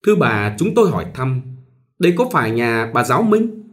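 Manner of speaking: lightly voiced courteous gentleman; polite stranger. Suited stranger politely asking at the door, mild courtesy. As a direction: ask with a bow in the voice. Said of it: "người Âu phục cúi chào rất lễ phép".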